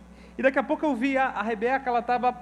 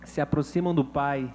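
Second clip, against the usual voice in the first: voice of God; 5 semitones lower than usual. Retold or imitated. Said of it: "E o Senhor falou comigo".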